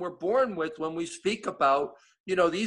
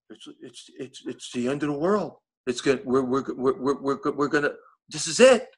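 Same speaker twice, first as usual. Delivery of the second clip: mentor quoted; 4 semitones lower, 5 dB louder than usual. Retold or imitated. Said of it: "He goes".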